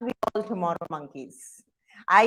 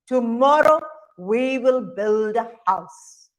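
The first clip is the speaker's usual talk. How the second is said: father monkey; 4 dB louder than usual. Acted. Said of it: "father monkeys would shake their right hand and say".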